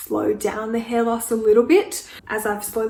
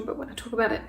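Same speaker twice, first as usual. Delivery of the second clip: fighting back tears on camera; getting emotional. Real, not acted. Talking to the camera about hair loss, holding back tears. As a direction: voice dropping, close to tears. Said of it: "I just get really emotional".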